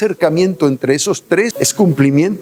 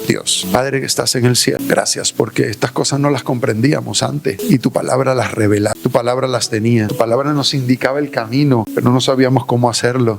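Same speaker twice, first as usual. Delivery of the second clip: closing prayer; 3 semitones lower than usual. Acted. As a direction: pray it gently, winding down.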